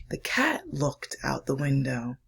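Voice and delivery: put-on hushed, slowed reading for children; story reading. Reads picture book aloud.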